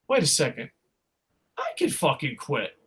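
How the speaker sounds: hushed sly realization; quiet realization. Retold or imitated. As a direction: mutter it as the idea sinks in. Coworker realizing he could quit.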